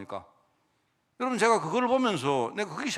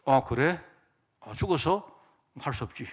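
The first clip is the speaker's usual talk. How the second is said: the king shrugging off a death; feigned indifference; 4 semitones lower than usual. Retold or imitated. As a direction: shrug it off as if nothing. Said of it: "이렇게 한단 말입니다".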